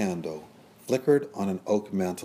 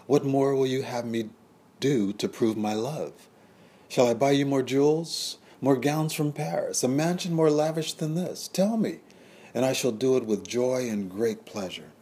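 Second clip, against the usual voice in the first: rising desperate plea; 6 semitones higher, 3 dB louder than usual. A narrator's reading. The lover offers Juliet jewels and gowns, desperately. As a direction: pitch climbs higher with each offer.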